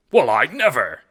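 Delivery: put-on high, loud affronted old man; bristling. A narrator's reading. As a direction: huff in offended indignation. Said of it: "Jacob bristles".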